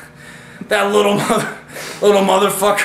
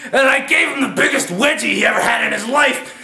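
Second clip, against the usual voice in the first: excited; 5 semitones higher than usual. Real, not acted. Excited fight retelling.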